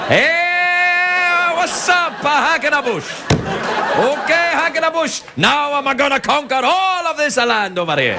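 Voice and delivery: high, casual, chummy conqueror voice; high, lightly mocking easygoing Roman; breezy American Caesar. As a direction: play Caesar as a laid-back regular guy. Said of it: "not so menacing when guy goes".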